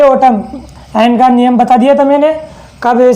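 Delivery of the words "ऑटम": ऑटम ending on m, n silent; teacher modelling ऑटम without the final n; silent-n pronunciation. Shown as a demonstration. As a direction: say ऑटम with nothing after the m. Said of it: "इसे बोलेंगे".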